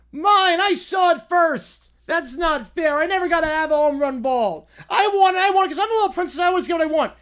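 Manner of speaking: put-on high, loud spoiled-kid whine; bratty little princess. Spoiled little princess yelling at the crowd, high and loud whine.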